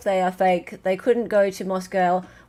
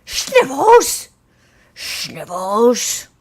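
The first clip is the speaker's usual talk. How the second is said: excited shout-out; 2 semitones higher, 7 dB louder, much slower than usual. Real, not acted. Host thanking a generous gifter, excited shout-out. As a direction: cheer the gifter's name like a fan.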